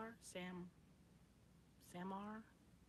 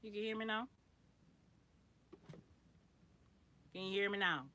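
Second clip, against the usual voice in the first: 1 louder to be heard; 3 semitones higher, 9 dB louder, faster than usual. Real, not acted. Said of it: "Am I talking too low".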